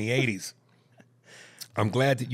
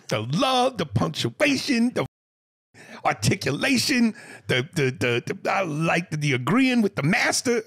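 excited gushing; 8 semitones higher, 3 dB louder than usual. Real, not acted. Host gushing loudly over email.

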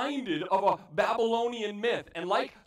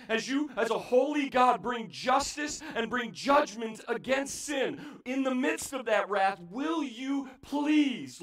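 loud, pleading prayer to God; impassioned plea; 3 semitones higher, 3 dB louder than usual. Acted. Preacher voicing the prophet's cry, impassioned plea.

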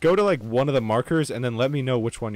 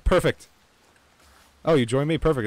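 excited; 4 semitones higher, 4 dB louder than usual. Real, not acted. Teammate lands in same spot.

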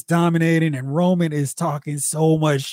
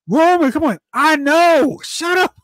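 mock Solo; 10 semitones higher than usual. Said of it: "Solo is talking".

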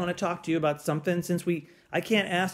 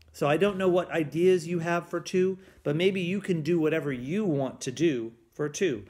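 ordinary delivery

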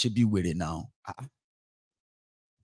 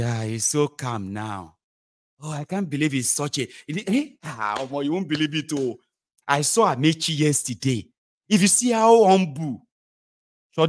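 high, breathless praise of a humble big man; gushing admirer; 5 semitones higher than usual. Retold or imitated. A fooled citizen raving about a politician, high and breathless. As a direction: marvel like a fooled fan. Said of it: "they say".

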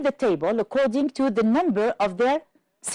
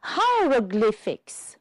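"Hieroglyphics" stretched out slowly; slow, careful "Hieroglyphics" for counting syllables; syllable demonstration; slower than usual. Shown as a demonstration. Teacher presenting a long word to the class, "Hieroglyphics" drawn out. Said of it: "This one is rather long".

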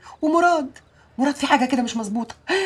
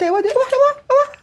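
calling out; 10 semitones higher, much faster than usual. Acted. Mother calling out for son.

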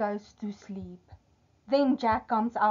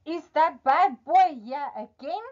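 suspicious wife; 5 semitones higher, 5 dB louder than usual. Acted. Wife suspects Jack is back.

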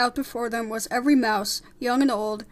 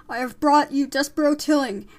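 loud, raised proclamation; shouted; 4 semitones higher, 8 dB louder than usual. Acted. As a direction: present the prisoner to the assembly. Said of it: "shouted Frollo".

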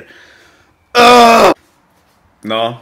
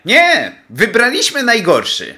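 high, loud frustrated cry; exasperated outcry; 7 semitones higher, 4 dB louder than usual. Real, not acted. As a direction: explode at the spelling in frustration. Exasperated outburst at spelling. (wzburzony, głośny okrzyk frustracji)

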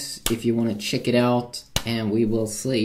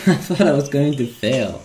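relieved laughter; 4 semitones higher, 4 dB louder than usual. Real, not acted. Laughs after near fail.

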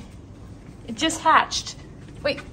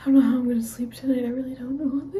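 teary whisper. Real, not acted.

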